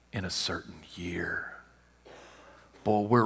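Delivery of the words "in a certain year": breathy dramatic whisper. Shown as a demonstration. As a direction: lean in and whisper it. Prophecy repeated, whispered for effect.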